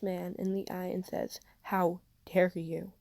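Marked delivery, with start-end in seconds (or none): 1.6-2.9 slow, outraged challenge; shaking fury. A narrator's reading. Aunt confronting the rude man, slow shaking outrage. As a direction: stare him down, voice shaking. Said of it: "voice a shaking wild thing".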